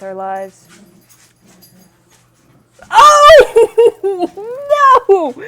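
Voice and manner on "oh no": squeaky, panicked bug chorus; high squeals of fleeing bugs; tiny bug voices. Acted. Bugs flee the lifted toilet seat, squeaking in panic.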